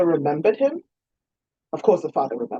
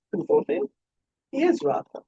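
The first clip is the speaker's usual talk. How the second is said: Lord Melbrook voice. A narrator's reading.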